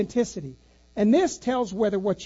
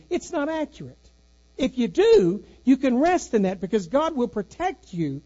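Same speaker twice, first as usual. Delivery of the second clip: preaching climax; 3 semitones higher than usual. Acted. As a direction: lift the church to assurance, then settle. Pastor's climax on provenance.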